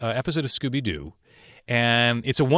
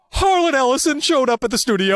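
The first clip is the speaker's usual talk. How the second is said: big, loud, high-pitched reveal; excited outburst; 12 semitones higher, 6 dB louder than usual. Real, not acted. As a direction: blurt it out, thrilled and loud. Excited reveal of a surprise guest.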